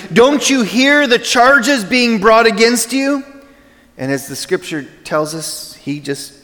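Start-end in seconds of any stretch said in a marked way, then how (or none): 0.1-3.2 slow, high, raised stage voice as Pilate; projected Pilate line. Retold or imitated. Pilate to the silent Jesus, slow high stage call. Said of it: "So I said back to him".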